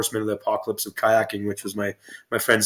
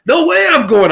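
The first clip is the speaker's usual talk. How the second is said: high, panicky no way; scared kayaker refusing to run the drop, high and panicky; scared refusal; 11 semitones higher, 5 dB louder, slower than usual. Retold or imitated. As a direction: back out of the drop in a pitched-up panic. Buddy refuses the big drop.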